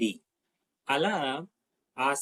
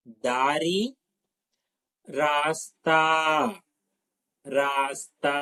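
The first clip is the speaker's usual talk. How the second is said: దర్వాజా said slower and drawn out, falling at the end; slower repeat. Shown as a demonstration. Teacher repeating దర్వాజా slowly for students to echo. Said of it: "నాతో పాటు oral చెప్పండి".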